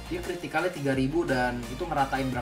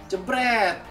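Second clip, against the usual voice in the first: punchy, higher "jebret!"; exclaimed "jebret"; 8 semitones higher, 4 dB louder than usual. Real, not acted. Gamer calling the hit as three heroes go, exclaimed. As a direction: pop out a hit sound, pitched up. Shouting a hit effect mid game.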